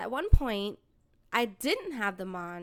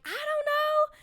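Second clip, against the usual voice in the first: retold rant; 3 semitones higher than usual. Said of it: "I was like".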